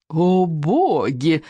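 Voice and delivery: long, swooning exclamation; delighted. A narrator's reading. Girl relishes a suicidal heroic quest, delighted. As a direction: draw it out in sheer rapture. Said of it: "улыбнулась Камикадзе в полном восторге".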